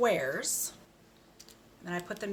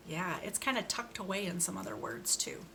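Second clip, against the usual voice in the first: 1 whisper; 5 dB quieter than usual. Real, not acted. Hushed aside to kids.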